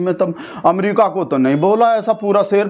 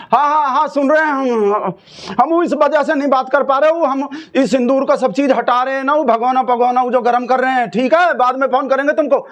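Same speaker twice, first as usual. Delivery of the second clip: raised phone voice wrapping up; 6 semitones higher than usual. Acted. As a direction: hurry the caller off the phone.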